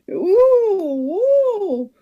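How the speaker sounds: high loud startled oohs with a laugh. Acted. Cashier feeling inflated, startled high ooh. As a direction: gasp as if inflating. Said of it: "blowing up your bottom".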